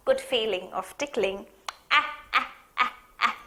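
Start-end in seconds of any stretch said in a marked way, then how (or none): 1.9-3.4 ticklish giggle, trailing off. Shown as a demonstration. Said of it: "what was the sound, Anna was making".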